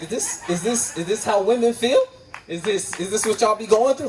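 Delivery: high, laughing rhetorical questions; laughing disbelief. Retold or imitated. Realising how women feel, asking through high laughter.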